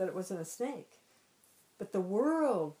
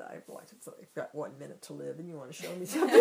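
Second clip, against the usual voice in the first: laughing disbelief; 4 semitones lower, faster than usual. Retold or imitated. Dying boy mocks friend's offer.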